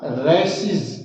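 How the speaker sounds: रेसिस with a voiced -siz ending. Shown as a demonstration. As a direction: say रेसिस slowly, ending in "seez". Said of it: "उसका उच्चारण होगा".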